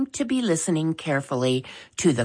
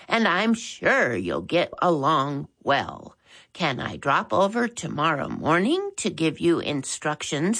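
put-on elderly caller; 4 semitones higher than usual. Old caller Maud Bagwell.

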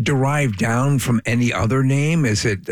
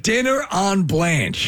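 slow announcer-style pitch for "Dinner on Blanche"; 4 semitones higher, much slower than usual. Shown as a demonstration. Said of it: "Heard here first on the Preston and Steve Show".

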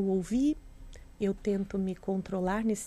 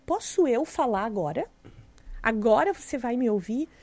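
provocative retort; 5 dB louder than usual. Retold or imitated. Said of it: "quando você fala coisas provocativas como essa".

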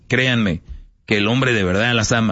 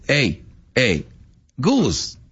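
put-on demanding girlfriend; 3 semitones higher, slower than usual. Acted couple, woman demanding love.

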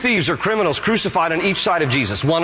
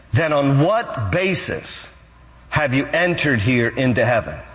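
measured questioning. Acted. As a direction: lay out the question phrase by phrase. Angel's final question to thief.

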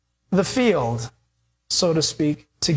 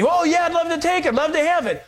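quick, much higher, jumping at the offer; hammed-up eager relative, fast and high; eager acceptance; 7 semitones higher, faster than usual. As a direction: grab the deal fast and keen.

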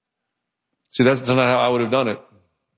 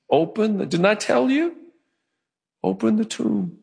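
insisting; 8 semitones higher than usual. Retold or imitated. Retold Jesus insisting.

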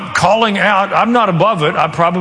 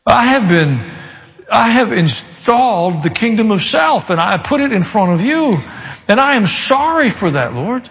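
quiet prayer; 3 semitones higher than usual. Shown as a demonstration. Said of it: "quietly say to the Lord".

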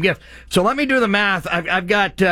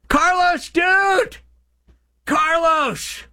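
excited shout; 11 semitones higher, much slower than usual. Real, not acted. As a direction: shout his name with delight. Excited greeting of big donor.

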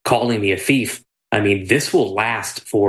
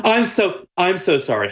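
laughing apology; 9 semitones higher than usual. Real, not acted.

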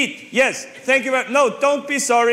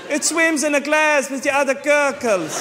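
exasperated laughing shout; 3 semitones higher than usual. Acted. Exasperated explaining to clerk.

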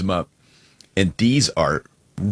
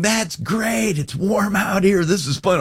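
high, bright mock cheer to calm a crying kid; lightly voiced upbeat coaxing; playing it up to stop the tears; cheery adult soothing; 10 semitones higher than usual. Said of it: "I'm going".

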